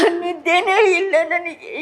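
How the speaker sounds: tears catching in her voice; crying. Real, not acted. Grandmother telling the reporter she cannot sleep, crying. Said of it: "ಅಳ್ಬೇಡಿ".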